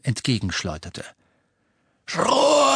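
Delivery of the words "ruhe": high loud cold command; commanding shout. Acted. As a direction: silence the crowd sharply. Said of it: "rief Voldemort".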